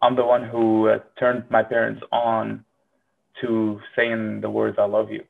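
ordinary talk, nothing marked

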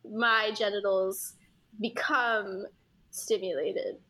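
formal, pointed corporate demand; politely impatient. Pretend. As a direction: stiff HR memo voice, trailing low. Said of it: "in such a corporate, like, H R fucking way".

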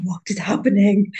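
hushed, stunned whisper. Retold or imitated. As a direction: whisper it to a partner nearby. Onlookers quoted whispering.

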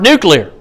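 nuclear pronounced NOO-klee-er; NUCLEAR as spelt. Shown as a demonstration. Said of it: "that say nuclear and not nuclear".

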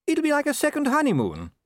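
high-pitched, hopeful wife; lilting wife, pitched well up; Sybil. A narrator's reading. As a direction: coax your husband brightly in a high voice. Voicing Sybil encouraging her husband.

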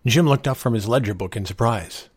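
ordinary delivery

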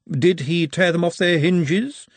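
slow odd character voice. A narrator's reading. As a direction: ask it slowly, in a voice not your own.

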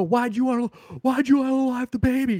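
high, mocking cop questioning the suspect; squeaky cartoon cop interrogation. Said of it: "They go".

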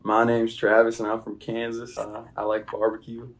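a Southern American accent, lightly put on. Asked for an American accent, he gives a light Southern American accent. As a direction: play a Kansas guy drawling about barbecue. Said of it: "Can you give us an American accent".

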